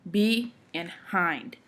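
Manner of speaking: BE, then HIND, said slowly and separately; two slow, separate syllables; syllables split apart. Shown as a demonstration. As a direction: slowly break behind into "Be" and "hind". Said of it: "two different sections to say the word".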